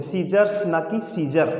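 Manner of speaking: सीजर्स with a clear s, then सीजर without it, said slowly; plural versus singular. Shown as a demonstration. Teacher slowly contrasting plural सीजर्स with singular सीजर. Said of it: "सीजर्स बोलते हैं".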